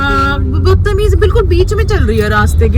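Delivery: fuming at a woman blocking the street; angry rant. Real, not acted. Venting at rude pedestrian. (बीच सड़क पर चलती लड़की पर गुस्से में भड़ास)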